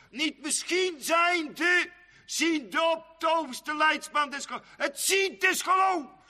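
high, ringing proclamation; building to a shout. Acted. Preacher rising to climax.

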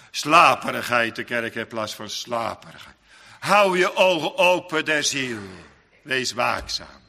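loud, forceful pulpit warning; preacher thundering against drowsiness; fiery preaching. Acted. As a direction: shake the sleepy church awake.

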